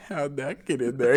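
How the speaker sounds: said slowly with a smile; smiling. Retold or imitated. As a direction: smile through "How'd that get in there". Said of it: "He's, like, smiling as he says it".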